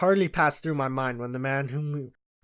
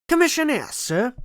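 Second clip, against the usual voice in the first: louder, higher, curt soldierly reply; gruff; 10 semitones higher, 5 dB louder than usual. A narrator's reading. Retired sergeant answering the doctor, gruff loud reply. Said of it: "he said gruffly".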